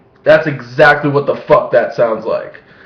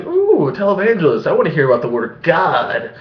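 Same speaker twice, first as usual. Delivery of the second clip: mock eager viewer. Vlogger mocks himself as an eager viewer, gushing. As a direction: ham up an eager churchgoer. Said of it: "I wasn't just sitting there watching".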